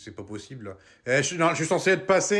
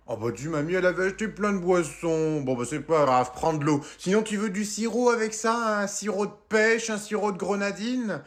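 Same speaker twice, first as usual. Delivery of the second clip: grandma voice; 3 semitones higher than usual. Acted. Grandma offering drinks.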